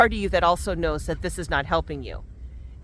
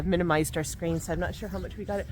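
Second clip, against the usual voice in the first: ordinary talk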